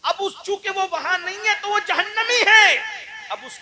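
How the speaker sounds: high, loud declaration; preaching shout. Real, not acted. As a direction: proclaim it at full force. (بلند آواز میں اعلان)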